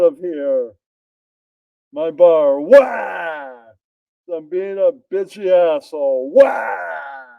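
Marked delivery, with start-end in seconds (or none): 1.9-7.3 wailing shout. Acted. Bartender loses his best customer, wails in a hammed-up shout. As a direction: wail it out like a hammed-up sob.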